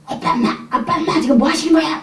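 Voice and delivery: high, pleading cry at parents; son's shout. Retold or imitated. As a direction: cry out at them, upset. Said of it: "혈기가 팍 나가지고 문이 쾅 열고".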